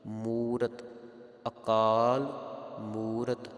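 ਅਕਾਲ ਮੂਰਤ word by word, long ਕਾ and ਮੂ; model pronunciation. Shown as a demonstration. Teacher models for congregation, measured ਅਕਾਲ ਮੂਰਤ. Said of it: "ਇਸ ਪ੍ਰਕਾਰ ਪਾਠ ਕਰਨਾ".

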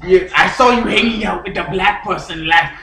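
lightly put-on Cuban accent. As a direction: chat as a Cuban character, accent on. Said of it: "I'm from Cuba".

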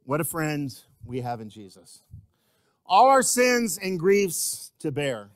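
measured spoken verse with pauses; hymn recited, unsung. Real, not acted. Preacher reciting an old song to the church, measured hymn recitation.

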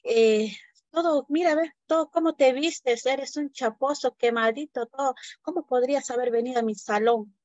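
teacher mocking the pupil from the mountains; contemptuous teacher. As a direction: sneer at the boy in front of the class. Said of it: "le discrimina delante de todos".

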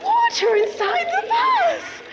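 high, slow, amazed reveal; excited. Acted. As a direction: draw it out in wonder. Magical reveal to audience.

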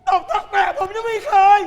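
angry shout. Acted. Son's guardian quarrels with father.

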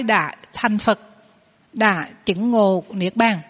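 slow, measured quoting of scripture; solemn slow recitation; quoting the Buddha. Acted. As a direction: read the sutra line slowly and solemnly. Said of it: "Ngài có nói cái câu".

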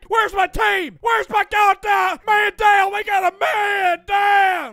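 urgent slow shouted call; man down shout. Acted. Teammate knocked down.

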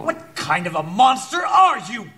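horrified shout. Acted. Inspector shouting at the remorseless killer in horror. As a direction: hurl the question in disgust.

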